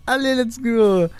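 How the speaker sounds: high, eager rallying cry; excited let's go; hyped cheer. Real, not acted. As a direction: pump yourself up before the pull. Hyping up the final summon.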